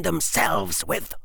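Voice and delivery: slow, icy final words; cold. A narrator's reading. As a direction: let the threat chill at the end. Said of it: "The voice went cold on the last note".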